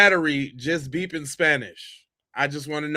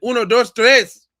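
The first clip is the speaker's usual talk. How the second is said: louder, higher mock beeping "Uno, dos, tres"; imitating smoke alarm; 6 semitones higher, 8 dB louder than usual. Host imitating a Spanish smoke alarm, mock beeping. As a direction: beep the counting like a device. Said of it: "It said".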